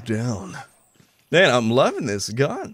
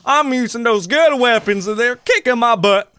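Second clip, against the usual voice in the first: imitating quitting players; 8 semitones higher, 5 dB louder than usual. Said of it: "They're like".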